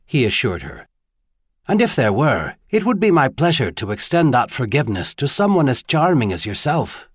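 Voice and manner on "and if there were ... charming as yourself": lightly voiced tenor gentleman; a hint of a gallant foreigner; gallant visitor. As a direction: pay a courteous compliment, lightly accented.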